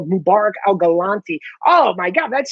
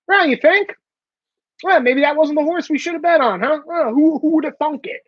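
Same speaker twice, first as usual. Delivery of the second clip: sarcastic; 4 semitones higher than usual. Real, not acted. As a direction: rub it in with sarcasm. His sarcastic reply.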